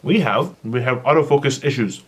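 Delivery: talking through a mouthful; words around a bite of food; mouth full. Real, not acted. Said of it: "speak with my mouth full".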